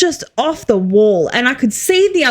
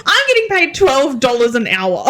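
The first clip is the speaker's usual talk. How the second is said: laughing. Real, not acted. Laughing outrage at low pay.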